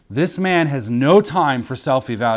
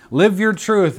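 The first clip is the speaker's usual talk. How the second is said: mocking slogan; 6 semitones higher than usual. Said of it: "it says in D C on some of the signs".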